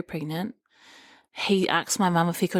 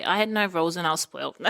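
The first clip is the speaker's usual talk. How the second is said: laughing; faster than usual. Retold or imitated. Mocking husband's upbringing while laughing.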